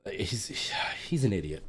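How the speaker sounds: a quick unvoiced whisper under the breath; whispered aside. Real, not acted. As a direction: drop to a whisper, as if he might overhear. Muttering about the coworker.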